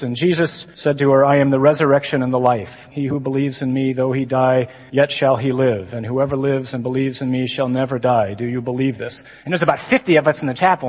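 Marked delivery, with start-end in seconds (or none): 0.0-9.2 low, monotone scripture reading; a hint of a solemn liturgical drone; droning seminarian reading. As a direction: read it ponderously like in chapel. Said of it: "he's reading the gospel when it comes to the point".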